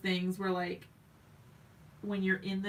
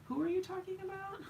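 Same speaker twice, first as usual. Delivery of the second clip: quick, high-pitched bewildered question; baffled interruption; 12 semitones higher, 4 dB quieter, faster than usual. Retold or imitated. Wife stops husband mid-story about work, high baffled squeak. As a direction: squeak it in comic confusion. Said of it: "stop him twelve times 'cause I'm like".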